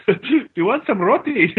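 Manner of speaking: mock Jamaican accent thrown in with a laugh; laughing put-on Jamaican accent; bad Jamaican accent. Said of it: "that's a bad accent".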